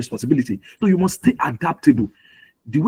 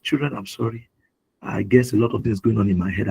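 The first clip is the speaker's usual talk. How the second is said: lower, subdued apology; retold apology; 4 semitones lower than usual. Father apologising to his children in the back seat, low and contrite.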